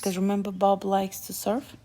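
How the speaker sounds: soft whispered reminder. Real, not acted. Child whispering to her brother about Bob surfing. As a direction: whisper it as a hint.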